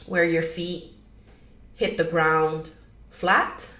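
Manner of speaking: measured meditation guide with long pauses; gentle guiding, pausing often; guided meditation. Acted. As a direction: ease them into it, leaving room between phrases.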